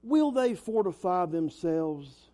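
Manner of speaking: slow, drawn-out mild mockery; mocking. Preacher reads Sanballat's taunt to the congregation, slow and mildly mocking. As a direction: read the taunt slowly, lightly mocking. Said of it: "a little bit of mockery".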